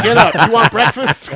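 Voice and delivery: lightly voiced aggressive older woman; bossy woman. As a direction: order him up like a pushy host. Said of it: "She was like".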